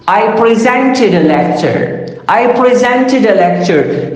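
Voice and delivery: preSENTed, weight on the middle syllable; stress on second syllable. Shown as a demonstration. Lecturer giving the verb in a sentence, preSENTed stressed on its second syllable. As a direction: stress presented as pre-SENT-ed. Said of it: "Here the stress is, uh, to the next syllable".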